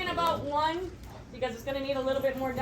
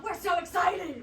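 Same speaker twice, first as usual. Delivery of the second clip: excited; 3 semitones higher than usual. Acted. Improv hype, laughing shout.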